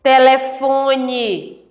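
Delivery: slow, measured word list; measured reading. Shown as a demonstration. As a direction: read each word slowly for the class. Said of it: "falar compassadamente".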